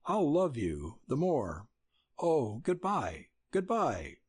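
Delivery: a hint of Nell letting him go; young woman saying farewell. Nell's farewell to Dick.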